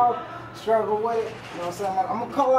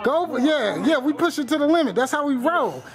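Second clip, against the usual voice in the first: hoarse marathon cheering; 5 semitones higher than usual. Real, not acted. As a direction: yell him through every rep. Spotter cheering lifter through reps.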